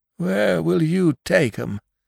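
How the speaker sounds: doubtful, uncertain tone. A man questions the other's plan, doubtfully.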